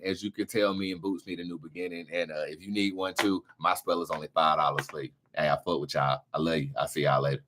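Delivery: a lightly voiced smooth-talking speaker. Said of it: "Brandon, go ahead".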